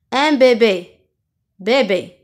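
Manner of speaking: "bébé" with two closed é sounds. Shown as a demonstration. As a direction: model "bébé" with a barely open mouth. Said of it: "Les deux syllabes contiennent E". (« bébé » avec deux é fermés)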